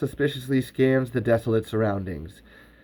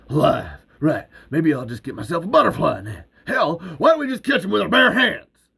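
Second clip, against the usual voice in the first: sarcastic grumble; 5 semitones higher, 3 dB louder than usual. Acted. Earl muttering sarcastically.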